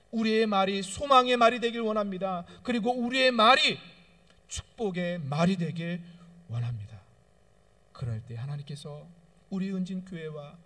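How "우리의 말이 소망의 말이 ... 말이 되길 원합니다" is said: loud, high exhortation; impassioned preacher; fervent preaching. Acted. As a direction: lift the congregation with each line. Preaching climax.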